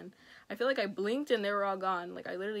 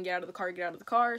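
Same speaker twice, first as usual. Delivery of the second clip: urgent yell; 6 dB louder, faster than usual. Retold or imitated. Yelling to escape the car.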